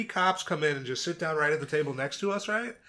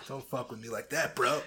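laughing; 4 dB louder than usual. Real, not acted. Said through laughter.

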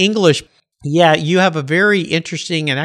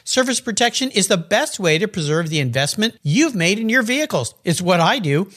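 polished, emphatic podcast ad delivery; sponsor ad read; 3 semitones higher than usual. Acted. Host pitching Covercraft car covers to listeners, polished ad read. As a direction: sell it to listeners, crisply emphasised.

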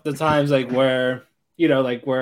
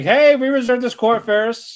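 higher-pitched bratty challenge; mock confrontation; 8 semitones higher than usual. Host acting rival girls claiming the court, mock confrontation. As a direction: play a rival staking a claim.

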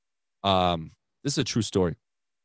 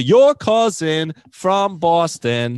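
slow, louder announcer-style read of the tagline; commercial tagline; 6 semitones higher, 5 dB louder, much slower than usual. Retold or imitated. Quoting his commercial's slogan, slow and hammed-up. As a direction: land the slogan slowly like a TV spot. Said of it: "It's the".

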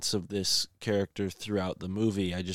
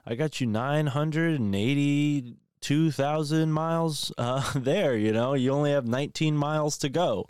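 friendly luck dragon; 6 semitones higher than usual. Retold or imitated. Luck dragon tells Atreyu how far it carried him, goofy higher voice. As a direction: play the big friendly dragon bragging with a chuckle. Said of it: "And the dragon's like".

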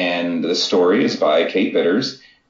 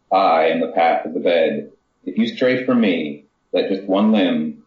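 poem reading. Acted. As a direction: let each image land as you recite. Author reads her own poem.

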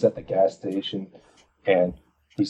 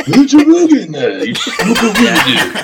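high, loud, laughing mock Asian accent; exaggerated Asian accent; 12 semitones higher, 11 dB louder, slower than usual. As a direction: ham up a broad Asian accent through laughter. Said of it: "doing a grossly exaggerated Japanese accent".

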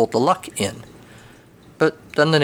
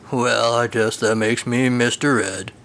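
Mister Ed impression. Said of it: "his best impression of the horse".

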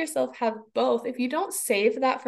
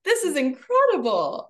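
amazed wonder; 2 semitones higher than usual. Retold or imitated. Mother marveling aloud at her furious child, amazed. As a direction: savor the wonder of it.

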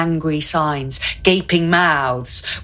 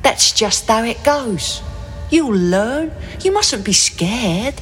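softly; 7 semitones higher than usual. A narrator's reading. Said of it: "very softly".

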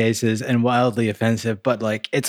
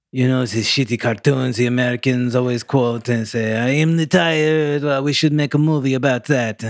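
hammed-up French writer's accent. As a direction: pitch it like a caricature Frenchman. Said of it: "Romain, Antoine, and Laurent".

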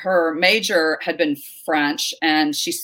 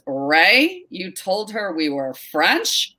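put-on New York accent; much slower than usual. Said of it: "in, like, this New York accent".

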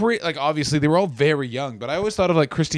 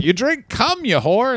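mock insult yell; 8 semitones higher, slower than usual. Retold crude insult on set.

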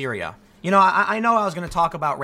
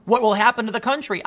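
mocking the excuse; 4 semitones higher than usual. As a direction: drag out the warmongers' line. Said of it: "the same excuse".

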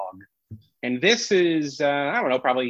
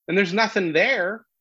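usual speaking voice

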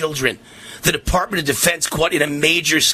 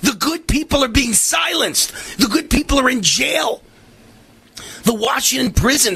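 outraged yelling; 4 semitones higher than usual. Real, not acted. Outraged host yelling about prisoners.

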